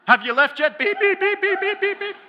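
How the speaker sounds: very high, loud furious shout with bleeps; imitated screaming demand. Girl screaming at boyfriend again, imitated furious demand. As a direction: demand it at full scream, swearing beeped. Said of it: "She calls her boyfriend back again".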